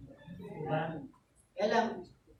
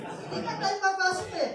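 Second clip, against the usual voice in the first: amused laugh through the words, higher and louder; 9 semitones higher, 6 dB louder than usual. Real, not acted. Pastor laughing at the member's claim, amused. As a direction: laugh it off as obvious.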